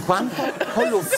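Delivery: reading on through real laughter; laughing while reading. Real, not acted. Reading the police letter aloud, laughing. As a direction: giggles breaking into the Italian letter. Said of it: "lass mich zu Ende lesen".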